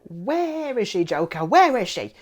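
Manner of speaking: high, loud hammed-up Batman demand; exaggerated Batman interrogation; mock Batman. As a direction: bark it like a parody Batman. Mimicking Batman line.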